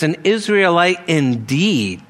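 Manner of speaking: deliberate stress on "Israelite"; deliberate emphasis. Retold or imitated. Preacher showing how the Lord stressed "Israelite", deliberate emphasis on it. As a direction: lean firmly on "Israelite", as the key word. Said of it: "He put deliberate emphasis on that word".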